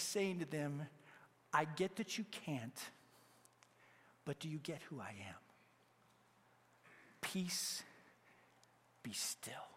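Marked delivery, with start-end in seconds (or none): 1.5-9.7 soft, whispered reassurance; intimate hush. Retold or imitated. Jesus whispering to his disciples amid the storm. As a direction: lean in and whisper it.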